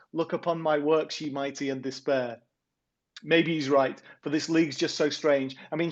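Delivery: rhythmic, sing-song verse reading; poem recital. Acted. Poet reads his weekly football poem to the podcast hosts, rhythmic recital. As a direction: read the rhymes with a steady lilt.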